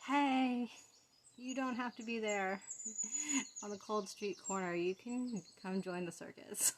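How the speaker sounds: starts loud and high, then settles; a hint of a carnival barker; circus barker.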